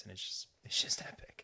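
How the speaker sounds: a real hushed whisper of amazement; awed whisper. Real, not acted. Describing the knife shot to his co-host, awed whisper.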